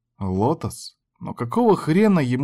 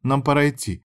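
plain reading voice

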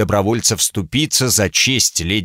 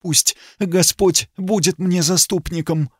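trembling voice; 7 semitones higher than usual. Acted. Frightened lady entrusting herself to God. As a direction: pray it with a quaver. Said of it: "произнесла дрожащим голосом".

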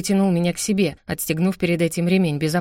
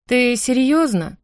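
slow, higher, dejected question; hope draining out of the voice; crestfallen; 6 semitones higher, 3 dB louder, slower than usual. Acted. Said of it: "упавшим голосом спросила я".

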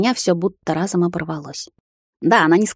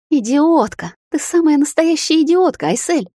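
much higher, loud self-berating cry; self-reproach outburst; 9 semitones higher, 4 dB louder than usual. A narrator's reading. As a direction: scream at yourself. Heroine berating herself.

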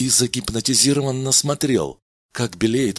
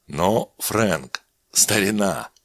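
heartfelt; slower than usual. Acted. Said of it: "задушевно произнёс Меллин".

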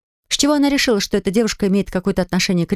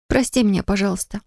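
ordinary delivery

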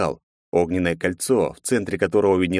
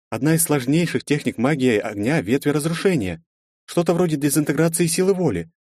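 relief and fear; 8 semitones higher than usual. Acted. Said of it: "голосом, в котором сквозили и облегчение, и страх".

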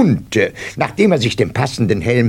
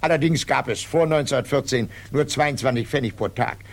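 usual speaking voice

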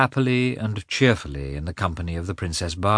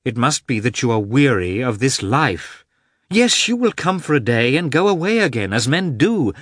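lightly voiced Anna turning sharp and higher; a bitter edge breaks into her voice; narrator's Anna, suddenly higher and cutting; suddenly changed voice; 5 semitones higher, 4 dB louder than usual. A narrator's reading. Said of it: "in a suddenly changed voice".

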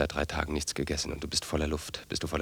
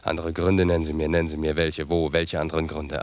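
angry demand; 6 dB louder than usual. Acted. Brothers quarrel, demanding answers.

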